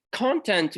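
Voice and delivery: "content" said as CON-tent; the noun "content", first syllable stressed. Shown as a demonstration. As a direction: put the weight on the CON of "content". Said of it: "with stress on the first syllable".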